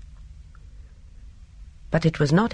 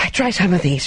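breathless; 3 semitones higher, 3 dB louder than usual. Acted. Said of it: "she said breathlessly".

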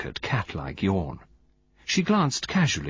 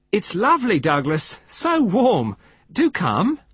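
high, loud, eager call; 12 semitones higher, 6 dB louder, slower than usual. A narrator's reading. Wife in the sea urging husband in, calling out. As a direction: call him in from the water. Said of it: "calling out".

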